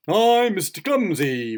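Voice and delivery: high, loud, drawn-out introduction; grinning reply. A narrator's reading. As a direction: announce yourself with a big grin. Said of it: "replied the untidy person, grinning".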